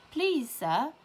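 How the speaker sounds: slow, pleading cry to the teacher. A narrator's reading. Child protesting to the teacher, crying out slowly. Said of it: "I cried out".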